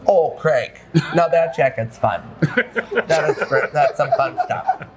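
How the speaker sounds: put-on light Minnesota accent, long O's; a polite Midwestern Minnesota accent. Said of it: "Is that a Minnesota accent?".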